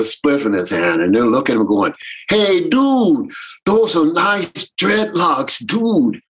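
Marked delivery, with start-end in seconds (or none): 2.3-6.2 lightly voiced laid-back dude, higher; imitating a stoner fan drawling "dude"; mock surfer dude. Mocking the fans who greet Winston, a laid-back dude voice.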